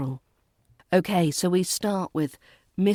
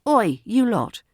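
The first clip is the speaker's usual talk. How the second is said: playful call; 3 semitones higher, 4 dB louder than usual. Shown as a demonstration. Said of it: "a touch of humour".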